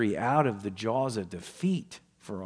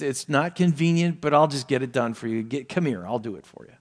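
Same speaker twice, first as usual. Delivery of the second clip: grudging helper. Retold or imitated. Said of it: "that feeling".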